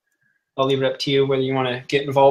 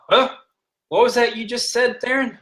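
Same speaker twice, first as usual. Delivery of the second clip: higher, sharp demanding question; indignant challenge; 7 semitones higher than usual. Acted. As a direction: dare him to repeat it. Captain challenges Theron's insult.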